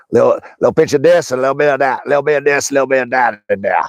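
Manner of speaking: Cajun accent, lightly imitated; mild Cajun accent, cook listing ingredients; Justin Wilson impression. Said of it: "He'd speak like that".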